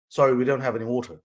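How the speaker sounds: quick, put-on American accent. Waiter turning down a customer's order, brisk mock American accent. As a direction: play an American waiter apologizing. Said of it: "my American accent is brilliant".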